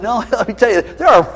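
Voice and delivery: a rebuke, loud in the middle; a hint of a stern God scolding Elijah. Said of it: "And then God said".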